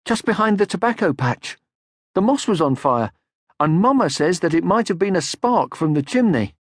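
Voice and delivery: put-on excited young troll voice; Moomin Troll. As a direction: call out like an eager young troll.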